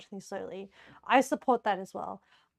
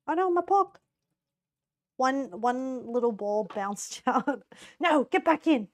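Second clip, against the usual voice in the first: surprised dismay; 4 dB louder than usual. Real, not acted. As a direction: yelp at the escaping pork. Pork ball bouncing out.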